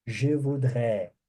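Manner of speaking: very slow model sentence for repeating; slow demo. Shown as a demonstration. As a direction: say it slowly so they can repeat. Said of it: "Quero ouvir vocês pronunciando".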